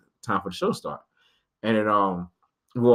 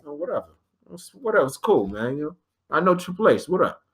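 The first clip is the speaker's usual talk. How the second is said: playing it cool; 4 semitones higher than usual. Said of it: "the adult in me is like".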